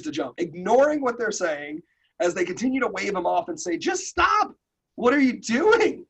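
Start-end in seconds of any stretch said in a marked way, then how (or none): 3.8-6.0 high, slow, pleading shout up from the pit edge; stretched-out frantic call, much higher; exasperated yell. Acted. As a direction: yell at him to quit, way up high. Frogs calling down to the jumper.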